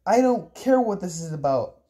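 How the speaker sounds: insistent, mustering some authority; strained authority. Acted. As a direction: lay down the law as best you can. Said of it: "with as much authority as I could generate".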